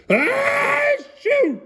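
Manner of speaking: high, loud sneeze blast; mock sneeze shout. Adult reading to child, acting out a huge sneeze.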